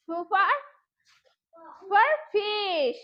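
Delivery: teeth on lip for fish; f sound. Shown as a demonstration. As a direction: blow the f of fish out. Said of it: "প্রথমে একটা sound আছে না".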